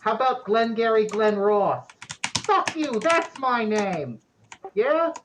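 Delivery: very high, loud statue spirit; high-pitched character voice, loud and insistent; distant echoey voice. Acted. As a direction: pipe up high, pushing for a request. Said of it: "that distant, echoey voice".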